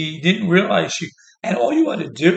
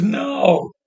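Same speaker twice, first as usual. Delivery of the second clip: a higher, louder shouted refusal; mock shout; 5 semitones higher, 4 dB louder than usual. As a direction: throw it out like a crowd rejecting. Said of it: "Democratic Party goes".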